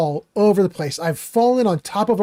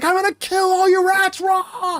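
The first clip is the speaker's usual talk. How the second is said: wild, charging, put-on war cry, shrill, very high; 13 semitones higher than usual. Retelling a buddy charging down a cliff at rats, imitating a friend screaming. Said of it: "screaming as he goes".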